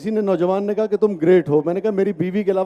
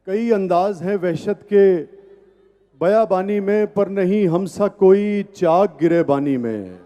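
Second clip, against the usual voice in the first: tender romantic poetry. Acted. Recites ghazal at mushaira.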